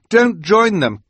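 high, loud, desperate warning; urgent cry. A narrator's reading. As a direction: shout to hold her back. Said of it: "Klaus cried".

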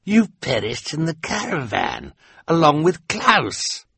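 lightly voiced shocked villain; stunned Olaf. A narrator's reading. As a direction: insist they died. Olaf disbelieves.

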